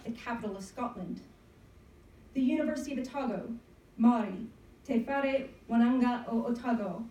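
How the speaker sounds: measured spoken-word poem with pauses; poem recitation. Acted. Poet reading to an audience on National Poetry Day, performed recitation. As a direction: read it out as a narrative poem. Reads their own narrative poem.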